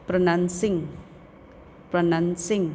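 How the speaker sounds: "प्रोनाउंसिंग" as a measured model word; careful pronunciation. Shown as a demonstration. Teacher giving pupils words to practise, careful pronunciation. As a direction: say "प्रोनाउंसिंग" distinctly for repeating. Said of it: "listen to the pronunciation of the".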